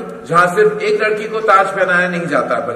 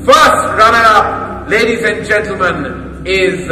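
higher, louder, building to the name; excited reveal; 7 semitones higher, 4 dB louder than usual. Acted. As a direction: build suspense then burst out.

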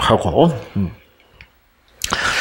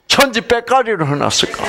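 raised, brisk Gyeongsang dialect phrase; light Gyeongsang dialect flavour, pitched up; 5 semitones higher, faster than usual. Shown as a demonstration. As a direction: toss out the Gyeongsang expression fast and higher. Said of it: "경상도 말로 천지 빽가리".

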